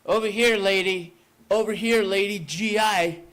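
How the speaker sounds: high, loud answering cry; calling back. Acted. Wounded GI guides her through the smoke, high loud calls. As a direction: shout back so she can find you.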